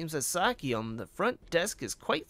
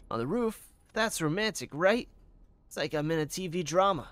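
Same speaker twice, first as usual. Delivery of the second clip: smitten front-desk officer; 3 semitones higher than usual. Acted. Invited to meet on the roof, giddy and torn. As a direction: play lovestruck, then torn over duty.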